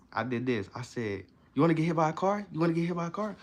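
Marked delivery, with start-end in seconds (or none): 1.5-3.3 high, louder excited dog talk; gleeful rising question to a pet; enthusiastic. Shown as a demonstration. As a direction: ask it as if offering a treat. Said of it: "she was still doing the same thing".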